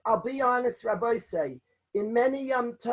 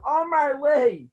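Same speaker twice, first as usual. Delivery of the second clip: raised, slow cry of woe; mock scream; 3 semitones higher, 4 dB louder, slower than usual. Father-in-law screaming over his broken son-in-law, loud. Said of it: "and he's screaming".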